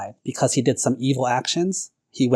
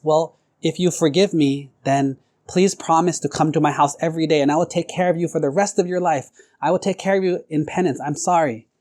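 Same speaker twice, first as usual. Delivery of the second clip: earnest penitent pleading; 4 semitones higher than usual. Acted. Penitent polisher pleading with monk.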